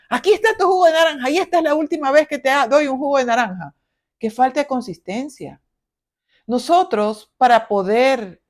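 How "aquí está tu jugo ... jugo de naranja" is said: fast, higher complaining grumble; grumbling mother. Retold or imitated. Mother grudgingly serving juice, fast higher grumbling. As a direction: grumble as you hand it over. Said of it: "refunfuñando".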